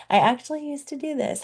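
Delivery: amused laughing restart. Real, not acted. Coach catching her own repeated phrase, laughing quickly. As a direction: laugh at yourself as you say it again.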